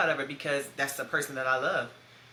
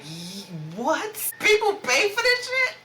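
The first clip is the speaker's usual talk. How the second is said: squeaky high, loud disbelief; stunned learning what funerals cost; shocked; 11 semitones higher, 5 dB louder, slower than usual. Retold or imitated. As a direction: shriek it in outrage, way up and louder. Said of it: "I just was like".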